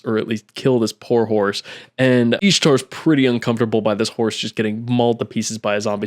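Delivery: ordinary delivery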